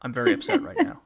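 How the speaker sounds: monotone voice. Retold or imitated. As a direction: say it with zero emotion. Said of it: "goes in a monotone voice".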